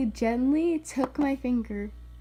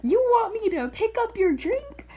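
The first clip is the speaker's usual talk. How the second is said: pissed-off retort; 3 semitones higher, 4 dB louder than usual. Retold or imitated. Telling off the little kid over his drink, pissed off. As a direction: act out an affronted comeback. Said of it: "I was already pissed off".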